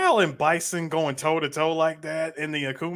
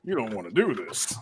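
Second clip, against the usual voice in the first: mock T-Hawk pleading; 8 semitones lower, 5 dB quieter than usual. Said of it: "It's like".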